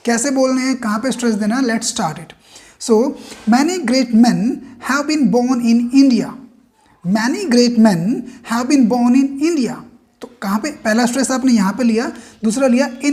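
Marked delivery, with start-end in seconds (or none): 3.5-9.7 "many great men" and "have been born in India" read in short chunks with pauses; phrase-by-phrase reading. Shown as a demonstration. Teacher shows students phrase-by-phrase reading with stress. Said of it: "दो तीन word इकट्ठे करके आपको बोलने हैं".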